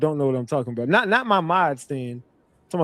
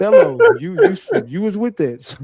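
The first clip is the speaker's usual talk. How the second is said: loud teasing call-out, far louder; mock accusing call-out; 5 semitones higher, 6 dB louder than usual. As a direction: hammer him with a mock accusation. Teasing a guest about rituals.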